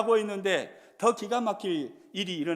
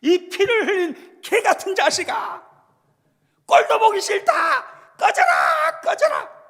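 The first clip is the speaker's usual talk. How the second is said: a much higher and louder shouted insult in rough Jeolla dialect; Jeolla dialect curse; 13 semitones higher, 13 dB louder than usual. Retold or imitated. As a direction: spit it out like a furious Jeolla villager. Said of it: "전라도 말로 번역을 하면". (전라도 사투리로 악쓰는 욕설)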